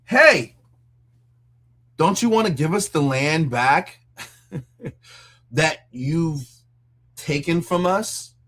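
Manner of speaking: lightly voiced Zelensky, mock cheerful ask. Zelensky asking Russia for land back, mock cheerful. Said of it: "Zelensky going to Russia and saying".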